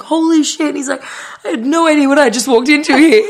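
high, giggly mock disbelief; a playful retold gasp of disbelief; laughing shock. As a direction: voice the driver's shock while laughing. Driver's shocked reaction, retold laughing.

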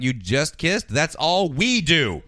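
slow, stretched retold outrage at the end; mock indignation. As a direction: act out an affronted girlfriend. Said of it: "Donna's pissed".

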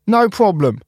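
high, bright helper voice; Spark voice. Acted. Spark brushing off Cap's thanks, high and easy. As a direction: toss it off like a cheerful friend.

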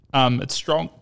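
talking through a burp; burping the words. Real, not acted. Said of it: "Sorry, I got a bit of a burp there".

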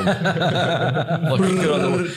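laughing through the words; giggling while talking. Real, not acted. Laughing about Chewbacca.

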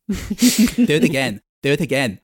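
eager demanding encore; clap-happy royal plea; excited. Acted.

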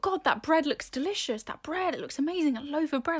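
playful swooning over bread; retold awe. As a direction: relive being wowed by delicious food. Retelling her awe at the bread.

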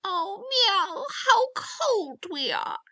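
high, drawn-out meowing wail; loud, whining cat voice; crying cats. A narrator's reading. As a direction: yowl the words slowly like cold cats. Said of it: "something cried suddenly".

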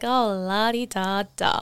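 slow, dismissive mock singsong. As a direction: brush it off with a sarcastic, drawn-out la-di-da. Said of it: "And I'm like".

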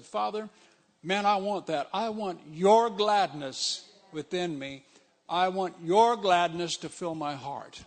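fervent, yearning prayer; earnest prayer. Retold or imitated. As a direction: plead it to God with longing. Praying aloud to God.

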